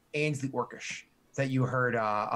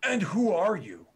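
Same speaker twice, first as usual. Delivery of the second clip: orc chief asking; 4 semitones higher, 4 dB louder, slower than usual. Acted. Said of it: "side glances the other one".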